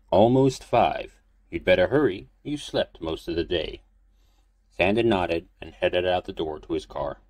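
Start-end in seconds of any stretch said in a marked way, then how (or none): 0.1-3.8 put-on old priest voice.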